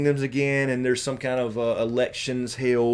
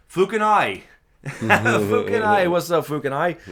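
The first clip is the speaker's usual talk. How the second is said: excited greeting; 7 semitones higher, 5 dB louder than usual. Real, not acted. Greeting chatter with drawn name.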